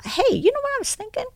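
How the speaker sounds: offhand suggestion, opened on a high pitch; mock-nonchalant husband; acting casual. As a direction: imitate someone floating an idea casually. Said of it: "he's just acting so casual".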